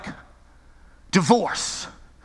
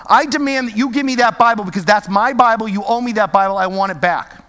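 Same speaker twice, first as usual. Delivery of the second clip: firm, a bit louder, insisting it's owed; demanding ask; 4 dB louder than usual. Shown as a demonstration. Preacher demanding his Bible back from Mike, forceful and entitled. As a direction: claim the Bible as yours by right. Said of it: "That's a very different ask from this one".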